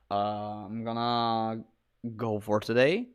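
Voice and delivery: worn-out late-night voice; tired voice. Real, not acted. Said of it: "pretty much tired voice".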